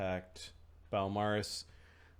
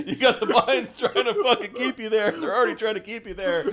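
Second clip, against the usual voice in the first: loud, higher laughing speech; 12 semitones higher, 13 dB louder than usual. Real, not acted. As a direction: talk through big laughter. Laughing hard at the joke.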